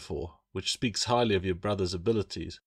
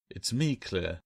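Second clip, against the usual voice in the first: gentle; slower than usual. Acted. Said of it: "the reptile said gently".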